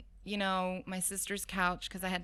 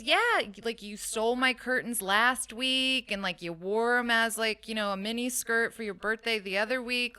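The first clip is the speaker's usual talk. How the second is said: higher and louder, laying it out for her sister; retold big-sister insistence, pushing louder; exasperated sister; 4 semitones higher, 7 dB louder than usual. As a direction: sister insisting the answer is obvious.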